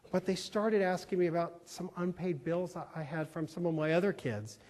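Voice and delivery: subdued storytelling in her words; quiet confiding. Retold or imitated. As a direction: quote her gently and plainly. Voices cleaning woman confiding her loss.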